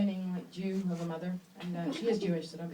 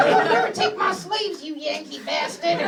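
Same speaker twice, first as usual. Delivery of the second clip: louder, slower, higher mock Southern rebel; hammed-up Confederate soldier; 6 semitones higher, 6 dB louder than usual. Couple role-playing the Civil War, hammed-up rebel shout. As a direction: shout it like a hammy Civil War reenactor through laughter.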